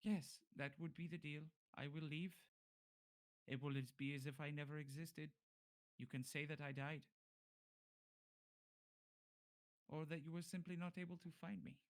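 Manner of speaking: lightly voiced formal bargainer; bargaining captive. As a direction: offer to vanish, calmly and formally. Game master voices bargaining character.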